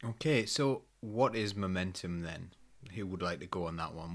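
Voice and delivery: ordinary talk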